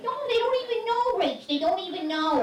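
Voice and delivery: a high mock dad voice; lightly imitated dad brushing it off; dad's voice. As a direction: play the defensive old dad.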